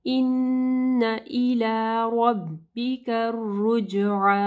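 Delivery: slow, drawn-out recitation with nasal ghunna; slow tajweed recitation. Shown as a demonstration. Teacher reciting the verse slowly for students. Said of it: "यहाँ पे गुन्ना होगा".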